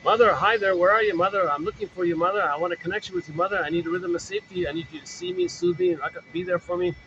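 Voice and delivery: reach for mother like a needy little one; a hint of a longing child; pleading child. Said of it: "all of the child's life force is to reach mother".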